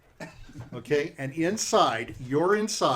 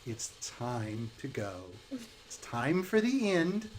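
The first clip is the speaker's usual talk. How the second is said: slow ominous witch; 2 semitones lower, 6 dB quieter, slower than usual. Acted. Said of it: "She goes".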